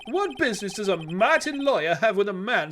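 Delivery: pompous rich Southern businessman; southern oil tycoon voice. Acted. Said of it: "southern U S, um, oil tycoon voice".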